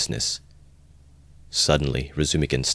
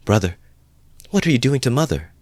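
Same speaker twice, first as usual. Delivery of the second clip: higher-pitched, understated indignant reproach; 8 semitones higher than usual. A narrator's reading. Sister overtakes her brother at the door, indignant. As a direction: confront him with a touch of indignation. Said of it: "she whispered, her eyes flashing".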